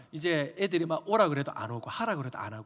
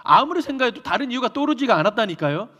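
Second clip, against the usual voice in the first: ordinary talk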